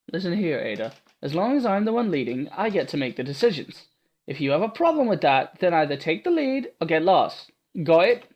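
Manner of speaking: lightly Scottish stern warning; stern, fierce. Acted. Martha fiercely laying down the law to Ada. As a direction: lay down the law, rising at the end. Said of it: "Martha suddenly raised her voice".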